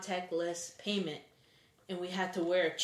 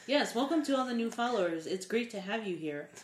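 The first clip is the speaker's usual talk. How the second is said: robotic voice; 3 semitones higher than usual. Real, not acted. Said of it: "Why did you say it like that?".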